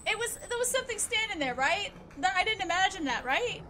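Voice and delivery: rattled. Real, not acted. Rattled after scare.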